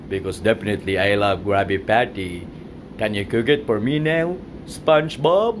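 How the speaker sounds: deep cartoon crab voice; Mister Krabs voice. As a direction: growl it out like the crab boss. Boss voice ordering again.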